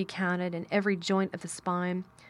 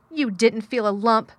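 loud, higher, cross retort; fierce contradiction; 4 semitones higher, 9 dB louder than usual. A narrator's reading. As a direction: flatly contradict him, fiercely. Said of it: "contradicted Mary fiercely".

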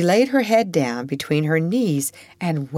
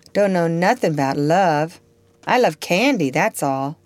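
offhand Topsy; 4 dB louder than usual. Acted. Topsy shrugs off Eva's question.

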